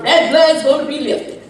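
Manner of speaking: preaching. Acted. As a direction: proclaim it like a prophet. Preaching at full force.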